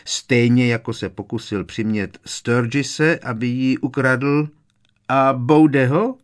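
taunting Harry. A narrator's reading.

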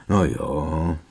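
understated sighing concession; resigned sigh. A narrator's reading. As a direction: give in with a small sigh. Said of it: "povzdechl si Ron". (odevzdaně, s lehkým povzdechem)

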